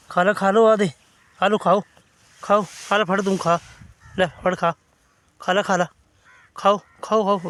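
loud, high urging; calling out. Real, not acted. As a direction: keep urging the puppies to eat. Calling puppies to eat.

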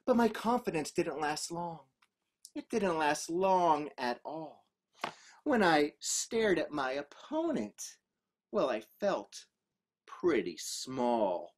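hushed, low narration; small and daunted. A narrator's reading. Fighter felt pretty small, quiet low telling. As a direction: shrink the voice down, with pauses. Storyteller's confidence shrinks before opponent.

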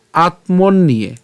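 "আত্মন নিয়ে" slowly, with the ন closed before ইয়ে; slow model pronunciation. Shown as a demonstration. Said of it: "কেন আমরা আত্মন নিয়ে উচ্চারণ করছি". ("আত্মন নিয়ে" ধীরে স্পষ্ট উচ্চারণে)

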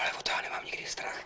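soft unvoiced whisper. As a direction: whisper it confidently. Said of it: "Tak proč vlastně šeptáme?".

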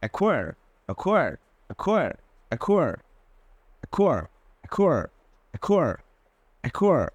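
অ্যাকোয়ার with the c left silent and a খ sound. Shown as a demonstration. Teacher drilling the silent c for students. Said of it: "সিটাকে আমরা silent লাগবো".

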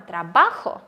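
трабахо stressed on the middle syllable ба; teacher contrasting stress; present tense stress. Shown as a demonstration. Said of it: "коли наголос не на кінець".

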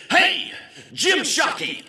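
high, loud call-out; excited hail. Retold or imitated. Fan walking into the trade show booth, loudly hailing. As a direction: holler it like spotting a celebrity. Stranger hails him at booth.

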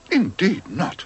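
mild indignant lady; lightly voiced indignant lady. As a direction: refuse it primly. Mrs Brown indignant.

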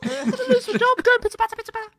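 very high hammed-up panic squeal; mock panic. Echoing the joke about a panicking friend, mock panic. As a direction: babble it in a high, panicked cartoon voice. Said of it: "Joe sat there panicking".

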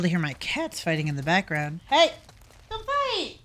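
telling off the cats; scolding the cats. Real, not acted.

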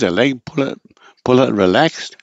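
halting query with "relaxed" going up; tongue-in-cheek question ending high on "relaxed"; questioning inflection. Shown as a demonstration. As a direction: puzzle over it, lifting "relaxed". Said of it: "this is a question mark".

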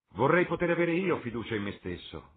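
high, loud amused line; laughingly. A narrator's reading. Lord Henry jokes about trusting himself, laughingly. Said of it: "disse Lord Henry ridendo".

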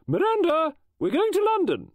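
called loudly across the garden, pitched high; calling out. Acted. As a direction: call her in from the garden. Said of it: "She went to the garden and called".

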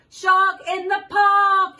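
high, slow shout of the warning; sing-song shouted alarm, slow and high. Acted. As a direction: call it out big for the child. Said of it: "He shouts".

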